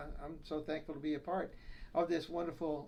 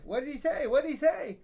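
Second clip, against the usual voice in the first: put-on high, louder old wife straining to hear; hard-of-hearing wife; 9 semitones higher, 6 dB louder than usual. Deaf wife asking her husband, high and loud. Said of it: "the wife".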